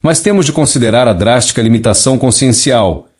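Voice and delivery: even synthetic neural TTS voice; a message read by a speech synthesizer. Real, not acted. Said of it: "usando um sintetizador de voz neural para ler a mensagem canalizada original". (voz de sintetizador neural)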